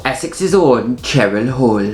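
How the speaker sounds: slow, drawn-out Geordie announcement; Geordie accent. Acted. Co-host introducing the lovely Cheryl, Geordie accent. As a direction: introduce her in a put-on Geordie voice. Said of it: "start talking like Geordie".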